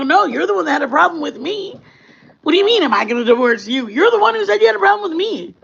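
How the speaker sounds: rising high and fast, incredulous; retold comeback to the ex-husband, fast and high-pitched; indignant retort. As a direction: throw it back at him, high and quick.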